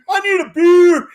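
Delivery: hammed-up hick shout. Mocking a toothless Southern fan, high yokel shout.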